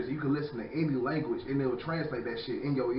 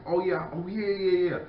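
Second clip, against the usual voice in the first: mock yeah; 6 semitones higher, 5 dB louder than usual. Mocking agreement.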